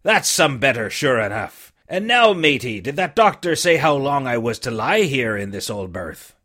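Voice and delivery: put-on a weak old seaman coaxing the boy; dying buccaneer begging the boy for rum; old sick sea captain. Captain speaks.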